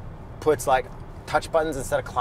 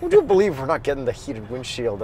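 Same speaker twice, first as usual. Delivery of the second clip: put-on Minnesota accent. Co-host tries his Minnesota accent for the viewers. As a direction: play it Minnesotan, lightly. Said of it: "I do a Minnesota accent".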